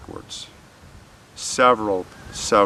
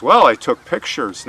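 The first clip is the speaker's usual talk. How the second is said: louder, mildly boastful retold admission; proud; 3 semitones higher, 6 dB louder than usual. Killer admitting to interrogators that he took pictures, mildly proud. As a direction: imitate a man pleased with his own confession. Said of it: "Now he was proud".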